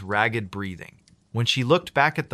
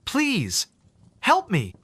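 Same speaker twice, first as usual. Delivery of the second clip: high, pleading ghostly wail; mournful wail; 9 semitones higher, slower than usual. A narrator's reading. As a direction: beg like a lost spirit. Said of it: "like a mournful wail".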